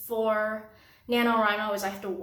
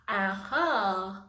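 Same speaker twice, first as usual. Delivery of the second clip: mumbled while applying lipstick. Real, not acted. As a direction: lips stretched, talking through lipstick. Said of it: "I can't talk when I'm applying lipstick".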